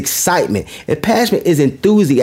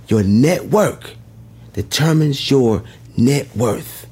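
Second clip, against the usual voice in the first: slow repeat; 5 semitones lower, slower than usual. Shown as a demonstration. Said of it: "slow repeat".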